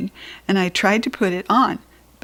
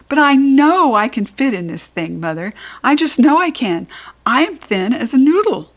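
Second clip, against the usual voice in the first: high, pushy insisting; child pleading with Mother; insistent child; 5 semitones higher, 4 dB louder than usual. Acted. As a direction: insist she can fit, louder.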